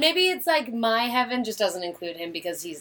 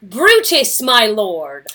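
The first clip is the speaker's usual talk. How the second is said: lightly voiced Portia, louder; calling her husband in the scene; 8 dB louder, much slower than usual. Portia calling to Brutus, mildly raised. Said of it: "here's the scene".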